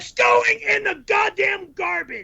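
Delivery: yelling. Real, not acted. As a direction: shout it at him. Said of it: "you don't have to yell".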